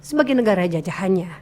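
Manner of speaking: "jajahannya" kept low and softly closed. Shown as a demonstration. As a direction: bring the whole phrase down through "jajahannya". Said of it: "Kan bisa lebih rendah juga bisa". ("jajahannya" dengan nada lebih rendah)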